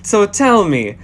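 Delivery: slow, drawn-out charmer; slow smooth voice. Acted. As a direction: savor each word slowly. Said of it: "and is just saying".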